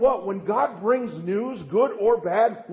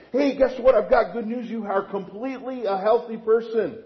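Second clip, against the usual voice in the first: mock cheerful doctor; 2 semitones higher, 3 dB louder than usual. Pastor acts out doctor's good news.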